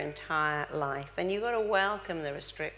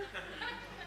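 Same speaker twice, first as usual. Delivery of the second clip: a short breathy laugh at the room; soft laugh; 9 semitones higher, 13 dB quieter than usual. Real, not acted. Speaker laughing at her own question to the audience.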